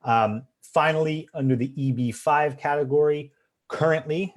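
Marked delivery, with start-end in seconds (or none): 3.7-4.3 currently lifted higher, ending on a rise; stress on currently. Shown as a demonstration. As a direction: lean on currently as a caveat. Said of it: "emphasis on the word currently".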